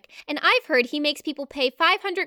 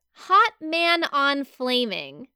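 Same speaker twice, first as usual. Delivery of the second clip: slow deliberate reading; 2 semitones lower, much slower than usual. Retold or imitated. Reading the botched tattoo.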